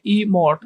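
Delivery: "ई मोट" broken after the first sound; syllables separated. Shown as a demonstration. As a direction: demonstrate "ई मोट" in two clear parts. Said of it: "ई अलग बोला जाएगा". ("ई मोट" को ई और मोट में तोड़कर)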